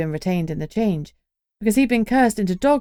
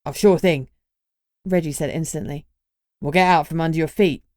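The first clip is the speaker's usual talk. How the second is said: cheeky young Cockney lad, lightly voiced; a grinning Cockney introduction; Cockney accent. Reggie's Cockney voice.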